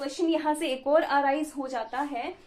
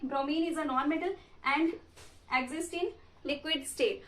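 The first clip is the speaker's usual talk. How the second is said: measured note-taking dictation with pauses; much slower than usual. Real, not acted. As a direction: dictate in short chunks, pausing for writers. Dictating notes for students to write.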